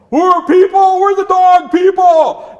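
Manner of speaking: high, loud indignant dog. Acted. Dog protests to the chief, high and indignant. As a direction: yap back in protest.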